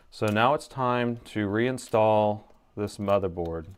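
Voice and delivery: flat, slow monotone. Shown as a demonstration. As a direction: drone it like a bored teacher. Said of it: "let's just go monotone".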